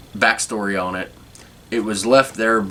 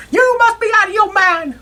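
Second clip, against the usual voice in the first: barbershop shout; 5 dB louder than usual. Retold or imitated. Quoting barbershop scene.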